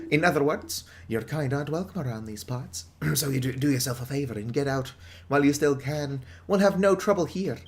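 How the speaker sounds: gruff British pub owner, lightly voiced; British publican. Pub owner warning the outsider off, British accent. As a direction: warn off the outsider like an old barkeep.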